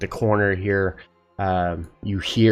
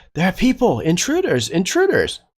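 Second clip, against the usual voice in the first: very high, wild, swooping alarmed shout; 11 semitones higher than usual. A game master voices a prisoner calling out as the party comes down the hallway; shouting out an alarm. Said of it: "immediately shouts out".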